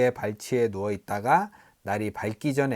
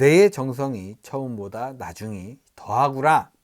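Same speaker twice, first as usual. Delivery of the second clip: usual speaking voice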